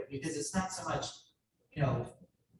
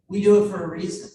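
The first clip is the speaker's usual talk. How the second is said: emphatic; 4 semitones higher, 11 dB louder than usual. Real, not acted. Speech climax, service pride.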